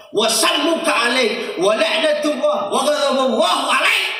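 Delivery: a wife's indignant comeback; retorting wife. Retold or imitated. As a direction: fire the curse back slowly. Aisyah's retort, voiced.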